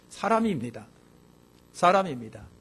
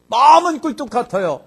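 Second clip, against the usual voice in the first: much louder and higher, falling off at the end; emphatic; 7 semitones higher, 8 dB louder than usual. Shown as a demonstration. Preacher booms the line to the congregation. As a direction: belt out the first half. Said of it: "repeated contrast line".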